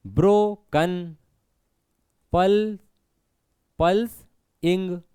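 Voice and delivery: ब्रोकन slowly in two beats, पल्स apart from इंग; broken into syllables. Shown as a demonstration. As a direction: clear pause between पल्स and इंग. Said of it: "अलग ही कर देना".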